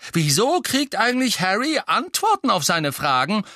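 high, angry protest. A narrator's reading. Twin resenting that Harry gets answers, angry. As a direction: demand it furiously. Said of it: "sagte Fred wütend".

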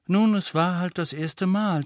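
high, soothing voice; consoling. A narrator's reading. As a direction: comfort a disappointed friend. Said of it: "tröstete sie ihn".

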